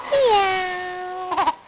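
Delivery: playful cat meow. Pretend. Parent asks what kitty says.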